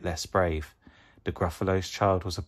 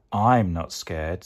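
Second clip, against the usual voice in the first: 1 not scared; 3 dB louder, slower than usual. Acted. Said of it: "said the Gruffalo's child".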